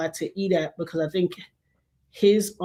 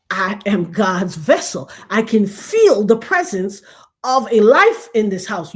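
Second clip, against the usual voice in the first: slow, weighty declaration; emphatic declaration; 4 dB louder, slower than usual. Retold or imitated. Speaker retells telling a friend she senses a life, emphatic declaration. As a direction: spell it out slowly, stressing each key word. Retold solemn prophetic declaration.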